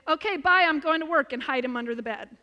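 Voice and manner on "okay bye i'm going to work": higher and louder, a little girl playing mom leaving for work; playful kid's voice. Child mimicking mom leaving for work, higher and louder. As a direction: sing it out like a kid playing house. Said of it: "and she would say".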